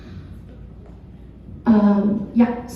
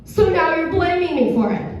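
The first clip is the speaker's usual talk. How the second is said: high-pitched mock offended daughter; hammed-up indignant comeback, pitched high; 6 semitones higher than usual. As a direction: imitate a child taking offence. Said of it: "And she goes".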